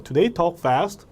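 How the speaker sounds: "fast" lifted at the end; rising question ending. Shown as a demonstration. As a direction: raise the pitch on the final word "fast". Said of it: "올려주면 돼요".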